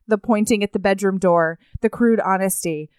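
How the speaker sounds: measured audiobook-style reading; narrating from a novel; story narration. A narrator's reading. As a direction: read the passage aloud evenly. Reads a book passage aloud.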